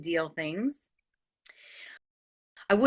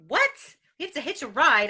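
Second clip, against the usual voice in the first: repeating it back in disbelief, pitch up; a stunned "what?"; mock shocked disbelief; incredulous echo; 6 semitones higher, faster than usual. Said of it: "Now, I'm like".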